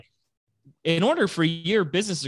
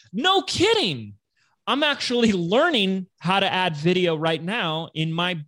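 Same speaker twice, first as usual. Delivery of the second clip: high-pitched, drawn-out "no kidding"; imitating an impressed new acquaintance; enthusiastic surprise; 6 semitones higher, slower than usual. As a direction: play the delighted stranger. Acting stranger's delighted reply.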